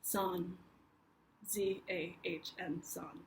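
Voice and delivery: "Zahn" with a soft English z, spelled out slowly; Americanized "Zahn", then letter by letter; American accent. Retold or imitated. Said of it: "American accent".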